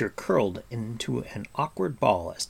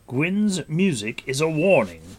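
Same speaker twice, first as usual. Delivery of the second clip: higher, louder, sonorous character voice; Gwydion, grave warrior; 6 semitones higher, 6 dB louder than usual. A narrator's reading. Gwydion answering Taran about the Hunter, grave. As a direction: proclaim it like an old lord.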